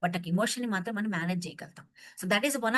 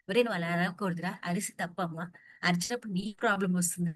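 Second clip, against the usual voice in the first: gentle parental correction; 2 semitones lower than usual. Retold or imitated. Parent sits the child down to explain, gentle correction. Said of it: "నువ్వు మెల్లగా చెప్పొచ్చు కదా పిల్లని కూర్చోబెట్టి".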